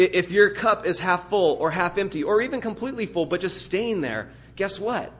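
ordinary talk

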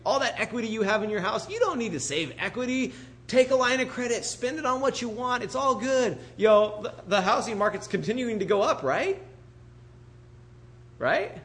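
a touch of hammed-up huckster cheer; mock sales pitch. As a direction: talk them breezily into spending. Mimicking the world's sales pitch.

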